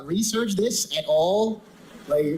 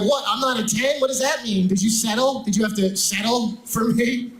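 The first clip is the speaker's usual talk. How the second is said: higher, indignant outburst; offended girlfriend; 5 semitones higher than usual. Retold or imitated. Girlfriend stung by an eight score, indignant and pitched up. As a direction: demand answers, stung and outraged. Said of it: "she's like".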